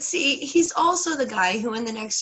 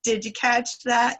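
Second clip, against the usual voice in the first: insistent spider; 5 semitones higher, 5 dB louder than usual. Retold or imitated. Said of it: "And he's like".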